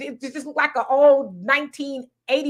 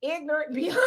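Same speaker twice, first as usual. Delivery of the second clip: laughing disbelief; 7 dB quieter than usual. Retold or imitated. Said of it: "I was like".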